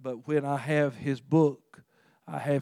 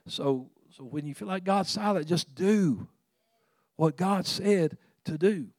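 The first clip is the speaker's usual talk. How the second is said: raised, louder preaching voice; emphatic preaching; 4 semitones higher, 6 dB louder than usual. Real, not acted. Preacher urging congregation to act on God's word, emphatic preaching. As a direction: drive the exhortation home with punched words.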